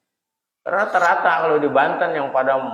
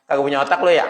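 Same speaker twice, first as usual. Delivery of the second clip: teasing insult, said a bit louder; cheeky Betawi taunt; 3 semitones higher, 5 dB louder, much faster than usual. Shown as a demonstration. Preacher teases the congregation, mock insult. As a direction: poke them like a friend picking a fight. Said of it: "lebih mantep mana tuh".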